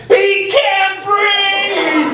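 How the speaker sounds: high, slow yell with a laugh; retold yell. Plumber yelling to his buddy, high and loud. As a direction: call out to the buddy. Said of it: "yells at his buddy".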